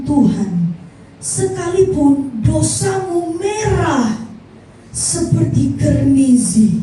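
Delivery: slow, measured Bible recitation; quoting Isaiah to the congregation, slow and solemn; scripture reading. Acted. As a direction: read each phrase of the verse slowly and solemnly. Reads Isaiah 1:18.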